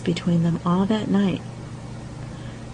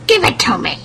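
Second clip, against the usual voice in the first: troll hag; 3 semitones higher, 4 dB louder than usual. A narrator's reading. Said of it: "said the old troll hag".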